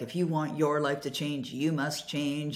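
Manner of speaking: ordinary talk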